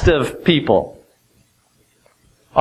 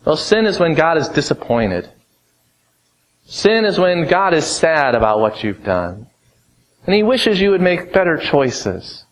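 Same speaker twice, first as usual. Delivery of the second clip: mild soft mock. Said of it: "I can't tell them".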